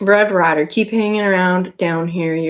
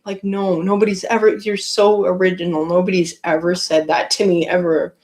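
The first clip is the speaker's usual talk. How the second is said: sarcastic reply. Retold or imitated. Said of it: "And I'm like".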